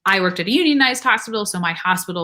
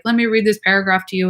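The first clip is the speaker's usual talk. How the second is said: bored reading; faster than usual. Retold or imitated. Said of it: "And I was talking like this".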